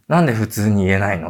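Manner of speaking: ordinary delivery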